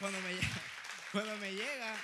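excited. Real, not acted. Excited retelling of green card.

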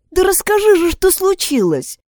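high, urgent exclamation; exclaiming. A narrator's reading. Friend urges the crying girl to speak, urgent exclamation. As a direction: plead urgently for the truth. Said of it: "воскликнула Изабель".

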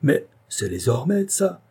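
amazed notary; surprised exclamation. Acted. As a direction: pitch jumps on the last word.

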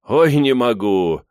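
carrying on in a stretched wail; raging. A narrator's reading. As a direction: drag out a loud outcry. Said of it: "бушует Алексей Игоревич".

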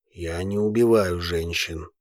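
a big calm man stating fact; calm deep volcano. A narrator's reading. The volcano uncle calmly assures his nephew, deep and low. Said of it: "спокойно произнёс вулкан".

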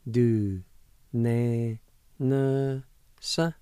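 syllable by syllable, Du, ne, ne, sa; slow separate syllables Du ne ne sa; Cherokee word for homes. Shown as a demonstration. Teacher sounding out Du, ne, ne, sa for students. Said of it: "It's pronounced like this".

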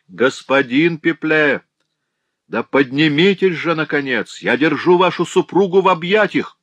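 high, loud impatient call; stranger's insistent call. A narrator's reading. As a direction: demand he come up at last. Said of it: "продолжал незнакомый голос".

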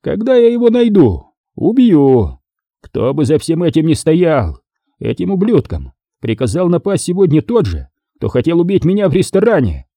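high-pitched, furious vow of revenge; angry growl. A narrator's reading. Boss vows to kill whoever ordered the attack, furious. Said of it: "прорычал главарь".

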